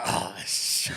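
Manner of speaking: low, startled oh shit; stunned oh shit. Retold or imitated. Seeing a pretty woman appear, low stunned oh shit. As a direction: caught off guard, low.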